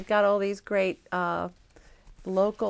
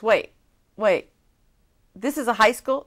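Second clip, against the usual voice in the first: louder, rising, can't believe it; surprised; 2 semitones higher, 5 dB louder than usual. Retold or imitated. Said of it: "she goes".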